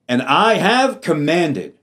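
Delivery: "And I have commanded" said slowly with the weight on "have"; slow, deliberate, emphatic reading; emphasis on have. Shown as a demonstration. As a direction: lean on "have" and take it slowly. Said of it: "I made emphasis".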